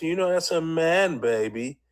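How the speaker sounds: lightly mocking Austin Powers voice; Austin Powers impression. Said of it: "Austin Powers".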